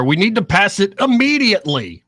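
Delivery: loud, high reading of an all-caps post; all-caps emphasis. Retold or imitated. Co-host quoting the president's all-caps demand, loud emphatic voice. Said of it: "Immediately in all caps".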